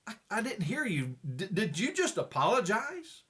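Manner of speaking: stammering, disbelieving husband; mildly hammed-up astonished double-take; acted bewilderment. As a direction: stumble into the question, baffled. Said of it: "With a bewildered, uh, expression".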